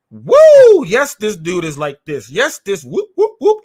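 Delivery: jeering fans imitation; mock cheering crowd. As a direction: hoot like a mocking crowd. Mocking online crowd cheering.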